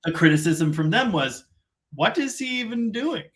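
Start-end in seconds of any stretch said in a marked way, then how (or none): 1.9-3.2 put-on near German accent. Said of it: "Notice I almost fell into an accent there".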